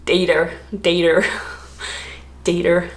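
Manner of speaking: DATER said for data, ending in an overdone r sound; overcorrected data. Retold or imitated. Woman mocking her own attempts to correct herself, overcorrected. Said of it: "trying to correct myself. I'd go too far".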